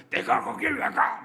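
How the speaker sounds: mock stubborn refusal; stubborn retort. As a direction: throw it back like a hard-hearted man. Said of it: "강팍해가지고요".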